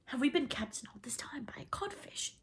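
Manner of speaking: high-pitched, hushed grumble; muttering. A narrator's reading. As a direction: grumble among the crew. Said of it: "they muttered".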